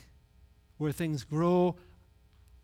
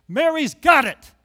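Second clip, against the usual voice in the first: "Mary's got it" much louder and higher, slow, hitting "got"; emphatic, louder; 7 semitones higher, 10 dB louder than usual. Real, not acted. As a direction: proclaim "got" like a preacher, slowly. Repeated, second time emphatic.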